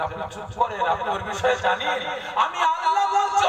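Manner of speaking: high, forceful declaration; commanding divine voice. Acted. Allah voiced scolding the insulter. (উঁচু গলায় জোরালো ঘোষণা)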